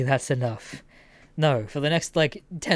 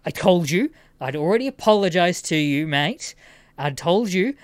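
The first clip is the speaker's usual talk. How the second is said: mock irritated outburst, louder; snapping; 5 dB louder than usual. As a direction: imitate an indignant man losing patience. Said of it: "I just watch him snap".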